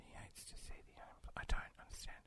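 "He hates to see the unemployed" barely breathed, unvoiced; confused whispered reread. Real, not acted. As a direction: whisper the punchline to yourself, puzzling. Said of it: "rereads the joke".

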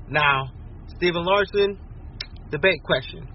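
normal talking voice

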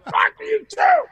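high-pitched retaliatory yell; acted, high-pitched comeback shout; shouting back. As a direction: fire it straight back at the screamer. Yelling back at screaming bandmate.

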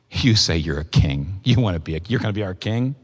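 a touch of crowd mockery; mocking. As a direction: sneer at him as a false king. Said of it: "We mocked him".

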